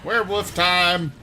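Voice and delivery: excited. Real, not acted. Werewolf transformation in game.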